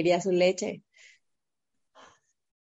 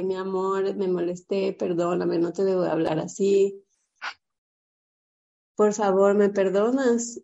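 tender apology. Retold or imitated. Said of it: "le dije".

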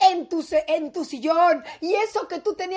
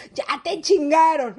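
put-on taunting kid; 4 dB louder than usual. Kids eyeing their scolded mom, gloating taunt. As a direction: repeat it as a full-voiced jeer. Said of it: "te voltean a ver con ojo de".

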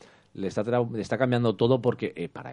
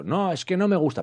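mock refusing character; 9 semitones higher, 3 dB louder than usual.

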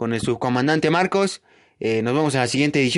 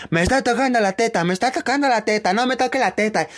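retold yell; 7 semitones higher than usual.

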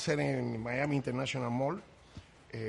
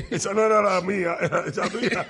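words pushed out through real laughter, louder; a touch of slow, laughing delivery at the end; laughing while talking; 5 semitones higher, 11 dB louder, slower than usual. Real, not acted. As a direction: laugh your way through the joke. Laughing at his own joke.

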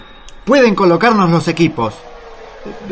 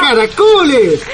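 surprised yell; 7 semitones higher than usual. Acted. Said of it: "¡No grites!".

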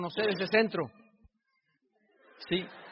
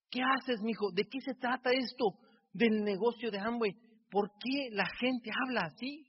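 lightly voiced old father, a touch higher and amazed; 4 semitones higher than usual. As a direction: ask it like a puzzled elderly father. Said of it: "Y mi padre dice".

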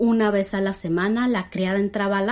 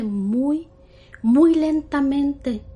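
slow suspense; 4 semitones higher, 3 dB louder, much slower than usual. A narrator's reading. Creaking door suspense.

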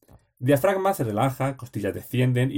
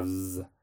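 a soft, drawn-out z buzz; a quiet bee-like buzz on z; 5 semitones lower, 10 dB quieter than usual. Shown as a demonstration. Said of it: "Cantar como una abeja".

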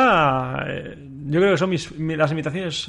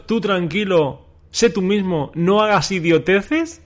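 slower, higher disbelieving repeat; mock disbelief at the advice; incredulous echo; 3 semitones higher, slower than usual. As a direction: echo it back as if it makes no sense. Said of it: "te han dicho".

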